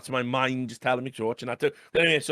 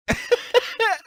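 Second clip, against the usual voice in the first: high burst of laughter; 3 dB louder than usual. Real, not acted. Laughing at the mock prayer.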